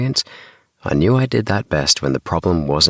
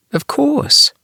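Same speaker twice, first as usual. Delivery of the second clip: sharp, much higher and louder snap; snapped; 5 dB louder than usual. A narrator's reading. Boy snapping back at his friend Priya, irritated snap. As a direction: bite the words off in irritation. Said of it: "I snapped".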